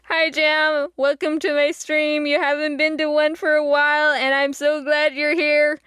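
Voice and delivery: oddly robotic greeting. Real, not acted. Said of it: "I sounded like a robot for a second".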